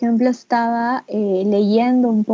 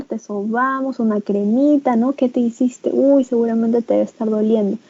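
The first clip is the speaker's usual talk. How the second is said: validating parent. Shown as a demonstration. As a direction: soothe the child and name the pain. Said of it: "ir donde el niño y decirle".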